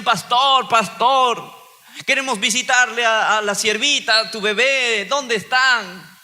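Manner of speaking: sweetly insistent ladies of the church; church sisters. Retold or imitated. Church sisters eagerly ask the pastor where his baby is.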